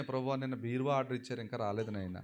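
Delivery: mock petty prayer. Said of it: "ఏంటి అదే ప్రార్థన పొద్దున్న లేచినంటే".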